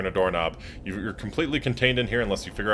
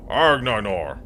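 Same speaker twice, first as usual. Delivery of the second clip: dinosaur growl; much slower than usual. Pretend.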